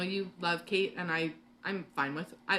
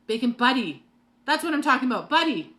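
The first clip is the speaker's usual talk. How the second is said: loud, higher, thrilled shout; excited yelling; 4 semitones higher, 8 dB louder than usual. Real, not acted. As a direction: yell it out with sudden excitement. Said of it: "why am I yelling at you guys".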